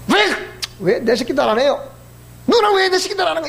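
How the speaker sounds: imitating a petulant outburst; mock angry complaint. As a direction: complain like a sulky grown child.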